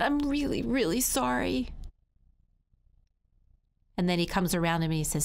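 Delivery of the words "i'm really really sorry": put-on high little-kid plea; small, contrite and pitched up; apologising child. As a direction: plead earnestly in a child's high voice.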